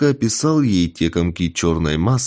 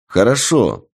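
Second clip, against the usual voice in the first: exclaiming; 4 semitones higher than usual. Acted. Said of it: "воскликнул я".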